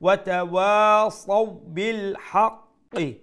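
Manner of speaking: slow high chant, long wa, quick সাউ in তাওয়াসাউ; soft quick leen. Shown as a demonstration. Teacher demonstrating the rule, chant with brief gliding সাউ in তাওয়াসাউ. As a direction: recite হাক্কি with a doubled full q. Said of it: "নরম রাখবো এবং তাড়াতাড়ি".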